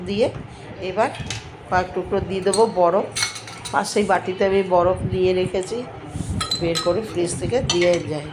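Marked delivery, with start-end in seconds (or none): 3.7-8.3 blocked nose and throat from a cold; stuffy nose. Real, not acted. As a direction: speak through a stuffed-up nose. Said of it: "একদম নাক বন্ধ, গলা বন্ধ".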